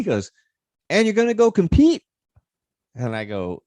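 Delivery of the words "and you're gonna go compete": put-on high, loud delighted African accent; a tickled African driver asking. Driver amazed he'll compete stoned, high African accent. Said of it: "I'll probably do a little bit of it".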